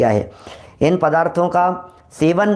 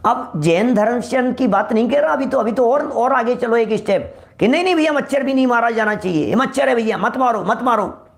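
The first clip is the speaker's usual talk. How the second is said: higher-pitched voice of someone pleading; acted plea; 6 semitones higher than usual. Acted plea to spare mosquitoes.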